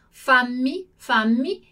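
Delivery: fammi with a long held double mm. Shown as a demonstration. Teacher showing students the double M in fammi, held long. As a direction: lean on the mm in fammi, clearly doubled. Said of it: "pronuncia delle due M qua".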